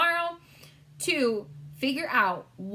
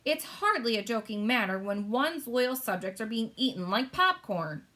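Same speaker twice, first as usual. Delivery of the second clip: mildly testy; 2 semitones higher than usual. Acted. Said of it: "growing testy".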